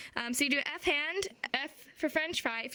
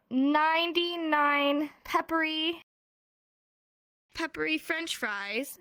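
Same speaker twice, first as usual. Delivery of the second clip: drawn-out, word-by-word demonstration; slow tongue twister; 3 semitones higher, slower than usual. Shown as a demonstration. Teacher demonstrates a tongue twister to students, slowly and carefully. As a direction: stretch each word, pausing to show it. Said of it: "a sign language tongue twister".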